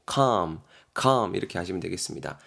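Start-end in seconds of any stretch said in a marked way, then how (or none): 0.1-1.4 calm을 L 없이 '캄'으로 발음; calm의 L은 소리 내지 않고 '캄'; L 묵음 calm. Shown as a demonstration. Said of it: "L은 발음하지 마시고 묵음 처리". (L을 묵음으로 '캄')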